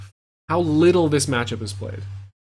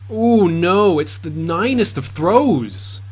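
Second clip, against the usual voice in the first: excited; 3 semitones higher, 5 dB louder, slower than usual. Real, not acted. Caster hype at big throw.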